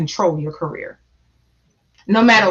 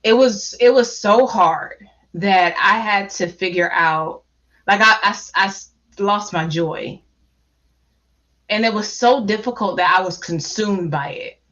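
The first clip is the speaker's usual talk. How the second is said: halting, with long pauses to hold back real tears; trying not to cry. Real, not acted. Panelist recalling how she lost her joy, holding back tears. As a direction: keep stopping to steady yourself against crying. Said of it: "I'm talking slow 'cause I'm trying not to cry".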